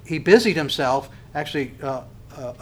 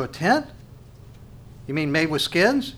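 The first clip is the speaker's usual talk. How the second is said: mock puzzlement. Preacher voicing a listener who hears of a tent, puzzled. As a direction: play a listener mildly taken aback.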